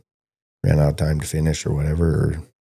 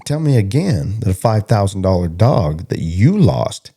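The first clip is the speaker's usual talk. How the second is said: higher and louder, pressing him hard; incredulous lecture; 5 semitones higher, 4 dB louder than usual. Retold or imitated. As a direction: demand he say it again in disbelief. Retold lecturing of the cowboy.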